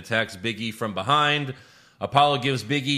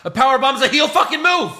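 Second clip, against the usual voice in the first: emphatic rant; 9 dB louder than usual. Real, not acted. Heated wrestling rant.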